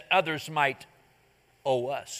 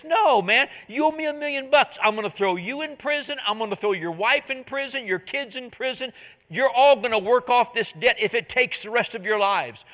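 stern refusal; 5 semitones higher than usual. Retold or imitated. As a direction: throw the whole family in prison, full force. King refuses the servant.

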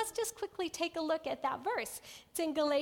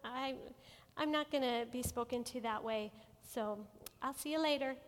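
simple and calm; 2 semitones lower, 4 dB quieter than usual. Shown as a demonstration. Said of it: "we can simply say".

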